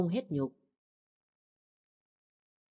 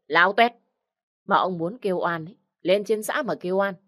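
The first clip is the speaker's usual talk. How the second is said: a hint of a harsh village woman giving orders; bossy, scornful orders to the crowd; lightly voiced shrew laying down the law; commanding; 2 semitones higher than usual. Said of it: "cô Bảy lúc này lại ra lệnh".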